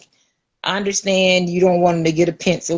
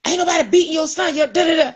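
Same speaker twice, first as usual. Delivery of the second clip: high, fast brush-off; mock the deputy waving her off; a fast, dismissive guard; 9 semitones higher, much faster than usual. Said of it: "He was like".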